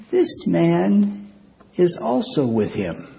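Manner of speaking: high, pointed accusing voice; servant girl accusing. Acted. Servant girl accusing Peter by the fire. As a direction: point at him, high and sharp.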